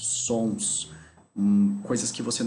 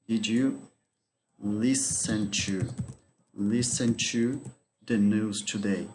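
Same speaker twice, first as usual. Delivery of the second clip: slow model sentence; slower than usual. Shown as a demonstration. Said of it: "teacher models the sentence slowly".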